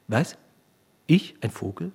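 incredulous questions building to a loud cry; angry disbelief. A narrator's reading. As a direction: build from stunned to outraged. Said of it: "schrie der Konrektor voller Zorn". (zunehmend zornig, empört)

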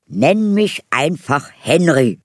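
high, loud grinning prince voice; cheerful prince. Acted. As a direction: grin wide as the cheerful prince. (fröhlicher Prinz, laut und hoch)

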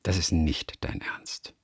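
hushed, slow disbelief; whisper. Real, not acted.

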